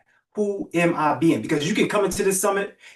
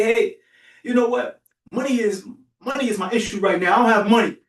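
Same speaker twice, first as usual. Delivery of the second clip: mock excuse; 5 semitones higher than usual. Mock excuse about money.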